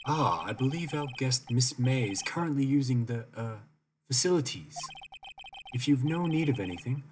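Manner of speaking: a hint of a formal bellboy, lightly voiced. Gamer voicing the bellboy to Phoenix, lightly formal. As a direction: play the hotel bellboy, polite and stiff. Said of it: "that's how I see this guy".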